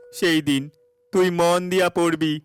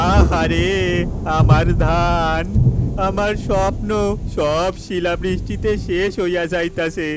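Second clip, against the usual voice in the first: anguished lament; 2 semitones higher than usual. Acted. Farmer laments ruined crop.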